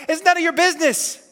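a high, pointed rebuke; firm rebuke. Retold or imitated. Jesus rebukes Peter, sharp and pointed. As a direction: shut down the jealous question.

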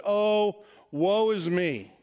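a hammed-up, drawn-out sigh of woe; mock lament. Preacher mocking an archaic lament to his congregation, hammed-up woe. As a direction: play up the old-fashioned misery, slowly. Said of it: "right? ... Nobody talks like that".

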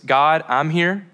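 unhurried, tender prayer words; simple prayer. Shown as a demonstration. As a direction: pray it slowly with long pauses. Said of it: "what if your simple prayer was".

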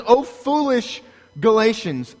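preacher thundering "Oh, foolish Galatians"; preached rebuke. Acted. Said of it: "He says".

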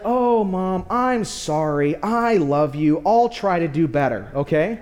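a touch of humble, adorable remorse; sweet, humble child. Retold or imitated. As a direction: play a little girl meekly making up with mom. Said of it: "just sweet, uh, a humble, adorable moment".

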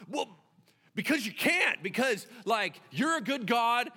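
high, loud acted protest; loud, high objection; flustered arguing. Moses arguing with God.

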